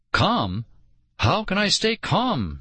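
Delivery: high, sharp disbelieving demand; shrill demand. A narrator's reading. Girl snapping at her brother in the pit, shrill. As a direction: throw the word back shrilly. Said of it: "she demanded shrilly".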